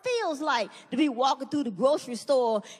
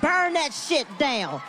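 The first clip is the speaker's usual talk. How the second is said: cheering shout; slower than usual. Acted. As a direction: egg the crowd on slowly. Cheering riot on TV.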